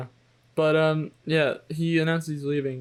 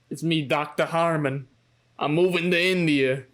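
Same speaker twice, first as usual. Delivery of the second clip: put-on New York accent. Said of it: "a really thick New York accent".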